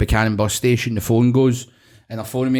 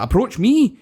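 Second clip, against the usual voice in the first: outraged disbelief; 11 semitones higher, slower than usual. Retold or imitated. Retold roofer's outraged disbelief.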